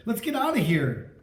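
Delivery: mildly scared, urgent plea. A narrator's reading. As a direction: urge escape, still fairly steady. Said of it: "Chris said".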